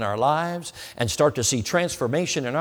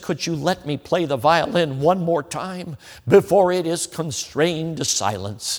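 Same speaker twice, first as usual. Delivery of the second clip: slow, higher and pleading; great passion; 4 semitones higher, slower than usual. Retold or imitated. Violinist begging the collector for one last play, passionate. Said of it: "I just said it with great passion".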